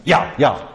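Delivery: "Ja, ja" said yah yah; German ja. Retold or imitated. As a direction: imitate Germans saying yes. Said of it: "They're saying".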